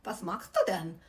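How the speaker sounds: German with a mock heavy Russian accent, slow and pointed. Two women confronting the masseuse, in German with a mild mock Russian accent. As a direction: lightly imitate Russian women speaking German. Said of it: "in German with a heavy Russian accent".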